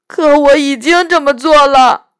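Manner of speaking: a mild helpless sigh of a faun voice; helplessly. A narrator's reading. Faun admitting his deed to Lucy, helpless. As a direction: admit it, resigned. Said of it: "洋人无奈地说".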